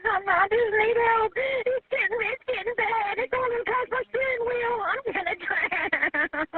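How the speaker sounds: pitched high and shaking with fear, slowing to a crawl at the end; real terror as the water rises; real panic. Real, not acted. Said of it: "I'm just scared".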